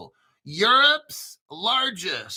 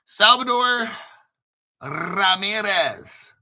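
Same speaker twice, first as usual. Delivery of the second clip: name call-out; 4 dB louder, slower than usual. Real, not acted. Calling out a viewer's name.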